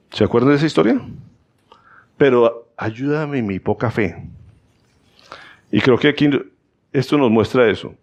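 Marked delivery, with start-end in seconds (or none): 2.2-4.3 pleading father. Acted.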